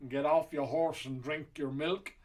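slow, lightly put-on American cowboy accent; John Wayne impression. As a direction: drawl a cowboy line like an old Western star. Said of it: "I don't know what accent that was".

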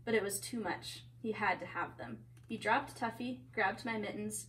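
lively picture-book reading; story narration. A narrator's reading. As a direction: read a story to children.

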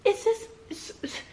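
high, laughing disbelief; can't believe what you're hearing; incredulous. Retold or imitated. Baffled at yelling doctor.

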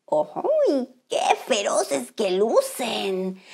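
slow, hushed awe of danger; wary crab. Acted. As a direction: eye the spiky urchins warily.

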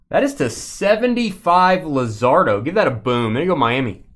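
talking through hiccups; hiccuping between words. Real, not acted. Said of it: "Excuse me, got the hiccups".

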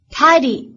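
tidy with a full gliding ai in the first syllable; diphthong in tidy. Shown as a demonstration. Teacher points out the diphthong, tidy with a gliding ai. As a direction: glide the vowel of tidy from a to i, slowly. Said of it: "这里有一个双元音I".

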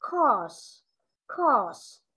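COURSE with a clearly sustained final S; light but clear ending. Shown as a demonstration. Teacher shows class the ending, COURSE with distinct final S. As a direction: let the S ring out at the end of COURSE. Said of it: "dù nhẹ nhưng nó rất là rõ".

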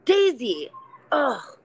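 contemptuous, dragged out, ending in a hiss; harsh inner critic. Retold or imitated. Inner critic scolding Daisy, slow and contemptuous. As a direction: sneer it very slowly, then drop to a whisper. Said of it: "I'll give you an example".

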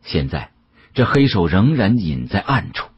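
usual speaking voice

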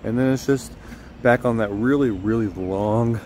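loud cheerful morning greeting; bright, loud vlog host energy; upbeat vlog intro. Real, not acted.

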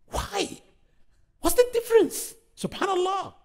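incredulous why. Real, not acted. Preacher to congregation, disbelief at racism, high incredulous questions. Exasperated at racism among Muslims.

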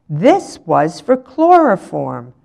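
slow, measured teacherly announcement; announced. A narrator's reading. Teacher showing pupils a glass inhaler, announcing slowly. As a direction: announce it deliberately to the class. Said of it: "she announced".

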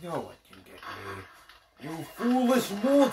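dark lord. Pretend. Villain taunting the other players.

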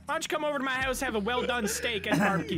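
hammed-up neighborly white-guy voice. Driver inviting officer to his house, mock white voice. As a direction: invite the cop over, trying not to laugh. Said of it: "White voice again".

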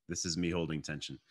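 muffled behind a hand; hand over mouth. Shown as a demonstration. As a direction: speak through a covering hand. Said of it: "when I put my hand over my mouth".

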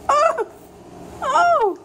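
excited oh. Acted. Parent showing picture book to baby.

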